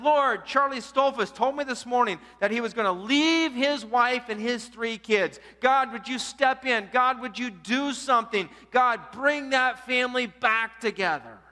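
fervent loud prayer. Retold or imitated. Man prays aloud at meeting.

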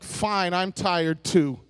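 low, slow sulky anger; mad husband. Acted. Rebuffed husband answering his wife, mad. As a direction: drag it out, put out but understated. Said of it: "And he's mad".

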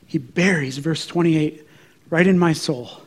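ordinary talk, nothing marked

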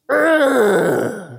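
loud, high exasperated growl; frustrated groan. Acted. Preacher voicing Jonah groaning at everything going wrong. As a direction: let out a loud fed-up groan. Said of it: "he says it again".

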